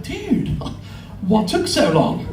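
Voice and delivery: high-pitched imitated "dude", easing down; instructor's greeting. Instructor greets him, acted quote.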